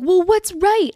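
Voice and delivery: high, loud mock confusion; put-on bewildered question; clueless driver.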